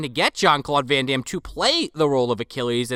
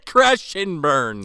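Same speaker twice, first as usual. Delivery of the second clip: Jean-Claude impression; much slower than usual. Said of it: "I can't do a good, uh, Jean-Claude".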